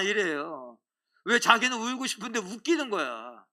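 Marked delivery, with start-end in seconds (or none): none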